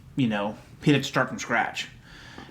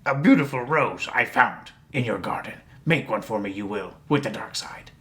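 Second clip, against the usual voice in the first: Yoda voice. Retold or imitated.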